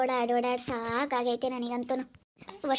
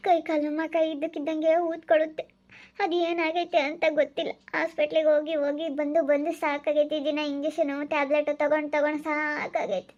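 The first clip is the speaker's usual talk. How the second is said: acted weepy, higher-pitched lament; tearful complaint; 3 semitones higher than usual. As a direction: wail lightly, worn out by illness. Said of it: "ಯಾಕೆ ಅಳ್ತಾ ಇದೀಯಾ". (ಅಳುತ್ತಾ ನೋವು ತೋಡಿಕೊಳ್ಳುವ ಧ್ವನಿ)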